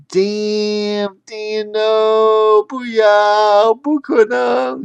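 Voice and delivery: high loud frantic cursing. Acted. Wild curses when both feet land on odd numbers, high and loud. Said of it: "she cursed".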